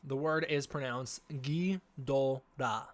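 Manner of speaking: Ghidorah said slowly the Japanese way, every syllable spelled out; slow careful Japanese Ghidorah; Japanese pronunciation. Shown as a demonstration. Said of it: "So in Japanese".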